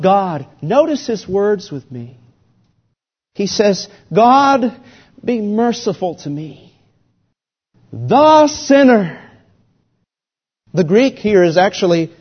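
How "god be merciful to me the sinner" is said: high, slow cry for mercy; a humble plea, voice rising on sinner; pleading cry. Acted. Preacher voicing the tax collector's desperate cry for mercy.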